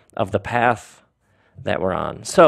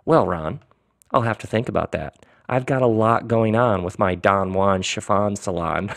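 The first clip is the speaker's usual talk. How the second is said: understated, mildly offhand reply; keeping cool; 2 semitones lower than usual. Acted. Don stalls Ron over the trade, keeping cool. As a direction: play it cool, holding the excitement in. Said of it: "He tried to keep his cool".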